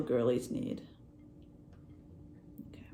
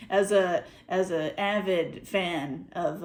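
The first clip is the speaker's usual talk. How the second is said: slow, emphatic, sounding sarcastic; earnest claim that comes out sarcastic; unintentionally sarcastic; 5 dB louder, slower than usual. Real, not acted. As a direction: stretch it out as if half-sarcastic. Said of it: "it sounds like I'm being sarcastic".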